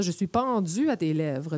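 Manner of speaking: "pendu" said as "pendzu", with a buzzing dz; Québécois affrication. Shown as a demonstration. A poetic line spoken to show Québec affrication. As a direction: let the "du" in "pendu" buzz. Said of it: "vous avez entendu le petit du".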